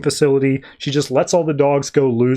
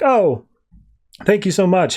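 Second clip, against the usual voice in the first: gushing thanks, voice jumping up; excited gratitude; 5 semitones higher than usual. Retold or imitated. Harley gushing thanks to her rescuer, excited. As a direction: gush like you've just been rescued. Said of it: "And Harley's like".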